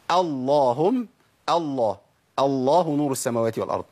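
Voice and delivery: الله and اللهم with thick, dark L; deliberate recitation, heavy L in الله; heavy lam. Shown as a demonstration. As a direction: begin الله on a full velarized 'LLAA'. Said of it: "وتفخم امتى بقى لما ابدا بيها".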